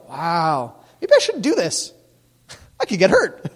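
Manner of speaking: a hint of an awed kid, pitch jumping up; lightly mocked impressed kid. Kid reacting to a parent's story, mock-impressed. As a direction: play up the kid's sudden realization.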